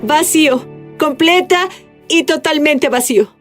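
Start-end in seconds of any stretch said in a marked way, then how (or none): none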